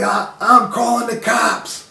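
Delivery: high, slow whiny imitation of the roommate; mock threat. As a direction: drag out the threat in a put-on voice. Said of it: "And he's like".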